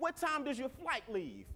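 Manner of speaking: put-on thick New York accent, laid on heavily. Telling a true story, quoting a gentleman in New York in a heavy New York accent. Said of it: "Real New York heavy accent".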